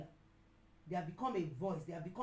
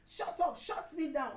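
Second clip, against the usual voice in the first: loud raised shout; 7 semitones higher, 4 dB louder than usual. Retold or imitated. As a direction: shout her down again. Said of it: "she shouted at me".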